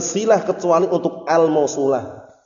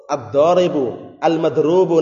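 slow demo word; slower than usual. Shown as a demonstration. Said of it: "Isim fa'il dan isim maf'ul".

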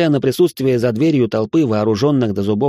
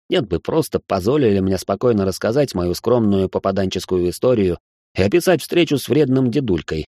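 plain reading voice

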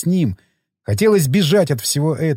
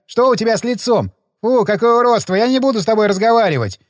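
higher, fast, squealing disgust of a spoiled patient; hysterical; 7 semitones higher than usual. A narrator's reading. Rich patient recoils from doctor's scar, hysterical. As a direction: throw a hammed-up tantrum, high and quick. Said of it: "закатывая истерику".

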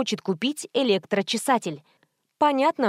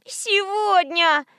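put-on high, drawn-out child's whine; little girl whining at grandmother; 9 semitones higher, much slower than usual. A narrator's reading. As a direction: whine it like a toddler. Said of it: "захныкала девочка".

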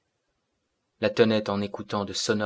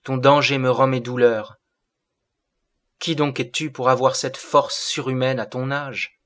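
put-on higher, raised voice of a distressed girl; crying out; 4 semitones higher, 5 dB louder than usual. A narrator's reading. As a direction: exclaim it in alarmed wonder. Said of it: "cria la jeune fille".

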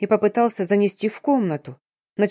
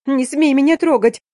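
higher, louder, furious hiss at him; hissed like a wild cat; 7 semitones higher, 5 dB louder than usual. A narrator's reading. Heroine to the approaching man, a high, loud wildcat hiss. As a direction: spit the warning like a cornered wildcat. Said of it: "дикой кошкой зашипела я".

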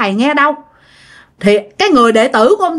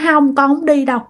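put-on slightly higher insistent child voice; gently stubborn, protective insistence; mild refusal; 3 semitones higher than usual. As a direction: imitate a child refusing to leave. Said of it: "Không chịu các bạn".

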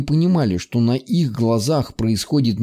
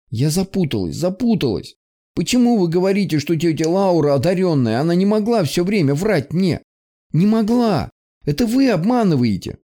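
rising higher into tearful denial; distraught crying; 7 semitones higher than usual. Acted. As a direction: voice climbing toward tears, desperate. Distraught girl near tears.

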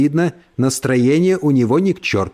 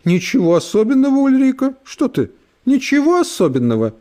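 flustered exclamation; 11 semitones higher than usual. Acted. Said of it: "и вскрикнула".

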